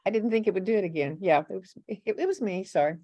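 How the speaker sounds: embarrassed apology with a laugh; sorry, caught out, laughing it off; sheepish. Real, not acted. Host apologizes for replaying clip.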